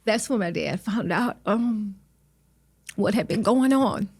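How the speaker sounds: fighting back tears while telling it; emotional. Real, not acted. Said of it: "I'm getting emotional".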